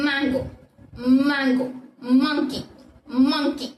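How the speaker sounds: "மேங்கோ" and "மங்கி" begun with a hummed M; held opening M. Shown as a demonstration. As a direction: hum the first M, then release "மேங்கோ", "மங்கி". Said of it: "ம் அப்படின்றத ஞாபகம் வச்சுக்கோங்க". ("மேங்கோ", "மங்கி" - நீண்ட ம் ஒலியுடன்)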